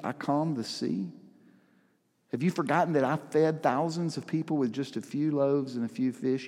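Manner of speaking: lightly voiced tender Jesus, pleading not scolding; compassionate. Jesus reminding disciples of his miracles, gently compassionate. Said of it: "You can almost hear the compassion in Jesus's voice".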